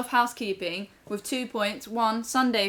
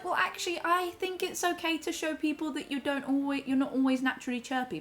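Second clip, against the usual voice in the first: retold reply; 6 semitones higher than usual. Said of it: "And then I was like".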